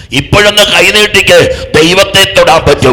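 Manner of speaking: loud, high-pitched sermon climax; impassioned preacher at full volume; full-force preaching. Acted. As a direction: preach it out loud, building to a hallelujah.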